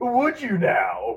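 very high, put-on old-time comic character voice. Acting out a shop clerk greeting a customer: Frank Nelson voice. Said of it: "I remember that voice".

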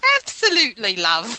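laid-on, bad put-on Cockney accent. Asked about a British alter ego, the speaker answers in a bad Cockney accent like Bert. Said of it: "your impersonation of an impersonation of a Cockney accent".

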